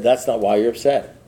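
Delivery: low, unruffled sponsor voice; calm contradiction. Retold or imitated. Sponsor answering his worked-up sponsee, calm and low.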